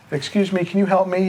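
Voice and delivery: high, lightly voiced old lady asking; little old lady. Old lady at Walmart asking the clerk for help, high voice.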